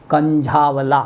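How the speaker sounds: कंझावला said with n before झ; pronounced kanjhawala. Shown as a demonstration. Teacher naming a village to show the nasal before झ. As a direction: say कंझावला as kan-jhaa-wala. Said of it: "तो यही उच्चारित होगा".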